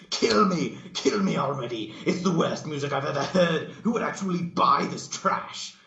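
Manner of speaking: very high, loud anguished scream; hammed-up agonised scream. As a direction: scream in agony at the music. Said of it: "She screamed".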